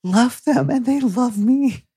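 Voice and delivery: high, slow and gushing with delight; a high, drawn-out squeal of love; gleeful devotion. Retold or imitated. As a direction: swoon over your beloved monsters. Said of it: "And I was just like".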